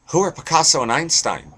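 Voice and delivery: high, dim-witted presidential impression; George W. Bush. George W. Bush answering Saint Peter, high clueless impression. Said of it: "And W says".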